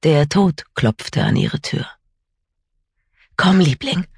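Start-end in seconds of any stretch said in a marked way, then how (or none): 3.4-4.1 breathless, urgent plea; panting. Acted. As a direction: gasp the words out while running. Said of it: "keuchte sie".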